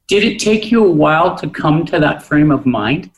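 ordinary delivery

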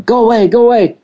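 high-pitched urgent pleading; re-enacted shooing. Telling the apparition to leave, re-enacted urgent shooing. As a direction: act out driving a spirit off. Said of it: "I kept going".

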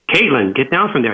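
a mildly firmer parental warning; parental tone two. Retold or imitated. Dad warning daughter on the ladder, mildly firmer. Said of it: "raise my voice to parental tone number two".

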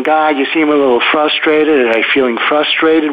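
mildly whiny complaint; whining. Shown as a demonstration. Coach showing the tone that just annoys people, whining. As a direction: complain with a touch of a whine. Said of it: "as opposed to whining, saying".

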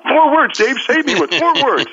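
very high-pitched, hammed-up begging; mock desperation. Complainer begging Dave to save them, mock desperate. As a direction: plead as if to be rescued. Acts out desperate advice seeker.

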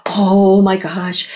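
hint of Canadian with a tacked-on "eh"; light Canadian accent. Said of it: "That's as Canadian as I get".

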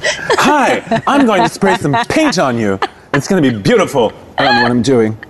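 lightly voiced Andy Warhol, detached; Warhol impression. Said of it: "could you imagine".

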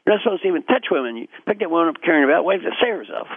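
high, quick indignant scolding; lightly acted telling-off; mock angry. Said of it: "is angry".

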